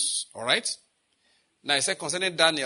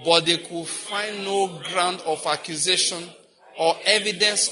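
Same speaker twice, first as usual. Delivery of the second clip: slow group scripture reading; slower than usual. Shown as a demonstration. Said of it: "read it together again".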